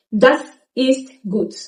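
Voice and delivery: ist said in full in Das ist gut; slow careful Das ist gut; full form. Shown as a demonstration. Teacher gives the full sentence. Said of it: "ist gets reduced to S".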